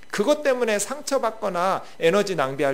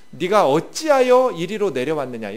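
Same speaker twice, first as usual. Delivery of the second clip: angry scolding; 6 dB louder than usual. Acted. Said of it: "막 분노하면서 화를 내면서".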